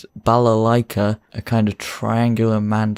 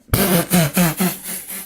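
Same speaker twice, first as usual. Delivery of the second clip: burst of laughter; 8 semitones higher than usual. Real, not acted. Laughing at own failed accent.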